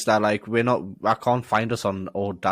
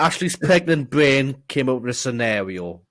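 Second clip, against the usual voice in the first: mock Italian baddie purring scenario; Euro villain voice. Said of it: "He's, he's put on his Euro villain voice".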